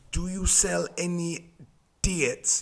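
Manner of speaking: slowed-down Sunderland accent, imitating a mate; strong Sunderland accent. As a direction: repeat it slowly in broad Sunderland. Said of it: "he's got a strong accent".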